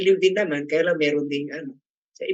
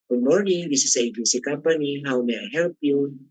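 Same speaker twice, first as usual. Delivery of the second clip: raised phone greeting. Shown as a demonstration. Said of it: "kung medyo itaas mo naman".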